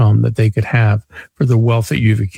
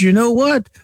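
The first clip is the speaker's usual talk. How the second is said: high, exaggerated Italian car dealer voice; Italian accent; 11 semitones higher than usual. Car dealer answers the caller, in a heavy Italian accent. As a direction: mimic the Philly dealer's thick Italian accent. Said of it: "very heavy Italian accent".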